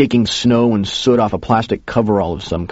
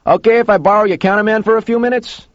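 high, contained call across the room; yelling; 12 semitones higher than usual. A narrator's reading. Joe asking Harry to borrow his counterman, yelling. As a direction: call out on a sustained raised pitch. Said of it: "he yelled to Harry".

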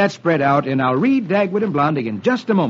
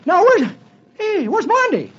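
Dagwood's voice; 14 semitones higher than usual. Acted.

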